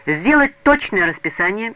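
put-on loud, deliberate boy giving dictation; dictating. A narrator's reading. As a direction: dictate it firmly for someone writing. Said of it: "диктовал Васёк".

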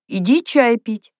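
high, drawn-out call; calling from a room. A narrator's reading. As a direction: call someone in to tea. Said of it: "позвала из комнаты Софья Михайловна".

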